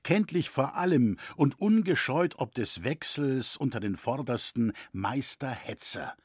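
ordinary delivery, nothing marked

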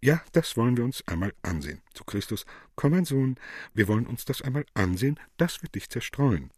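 fast, bright, relieved; happy. Acted. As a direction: hurry it out with relief. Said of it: "Maria glücklich".

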